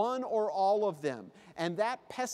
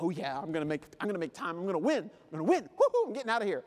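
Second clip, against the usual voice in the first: excited self-talk building to a whoop; mock triumph, rising; gleeful line racer; 2 semitones lower, much faster than usual. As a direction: get giddy as victory nears. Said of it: "and you're like".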